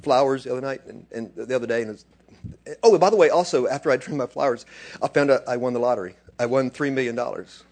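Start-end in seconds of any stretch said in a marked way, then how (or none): 3.1-7.6 casual, as if it were nothing; tossed off in passing; offhand. Shown as a demonstration. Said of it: "you wouldn't say it like that".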